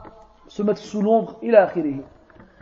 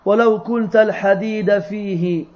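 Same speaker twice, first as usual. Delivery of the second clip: poem recitation. Acted. Teacher recites the poem's verses to students, measured verse recitation. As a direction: recite the verses in even, sustained phrases.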